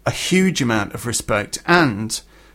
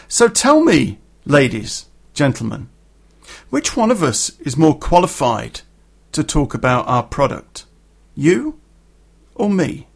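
pointed challenge. Retold or imitated. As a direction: put it to the room, pausing between phrases. Retold challenge to the audience.

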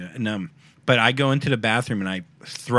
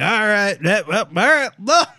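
yelling at the bouncer; 8 semitones higher, 5 dB louder than usual. Retold or imitated. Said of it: "If you keep yelling at him".

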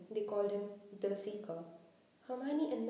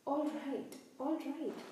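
higher, distressed giving in; sobbed surrender; 4 semitones higher, slower than usual. Acted. Quirrell giving in to someone threatening him, sobbing. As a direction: give in with a touch of a sob. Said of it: "he heard Quirrell sob".

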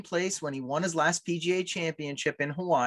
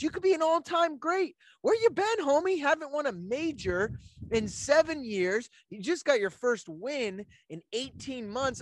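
ranting; 3 semitones higher than usual. Acted. Mock rant at Rory.

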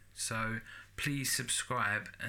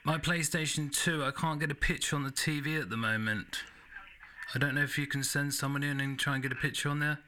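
prank caller voice; 3 semitones higher, faster than usual. Pretend. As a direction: play a clueless prank caller. Prank call in a put-on voice.

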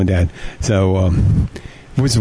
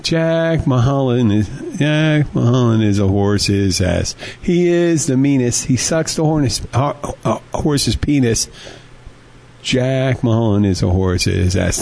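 toast recital; slower than usual. Shown as a demonstration.

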